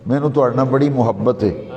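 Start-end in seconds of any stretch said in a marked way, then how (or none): 0.9-1.4 short u after the meem in محبت; everyday mispronunciation. Shown as a demonstration. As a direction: say محبت as "muhabbat". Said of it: "یہ میم پہ پیش نہیں ہے".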